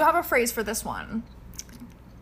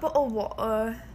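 put-on British "bottle of water"; British accent. Host echoing the classic phrase, British accent. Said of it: "who doesn't do a British accent".

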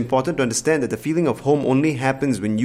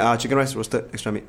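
curt order; 2 semitones lower, 4 dB quieter than usual. Shown as a demonstration. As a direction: toss out a bare food order. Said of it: "As opposed to going like".

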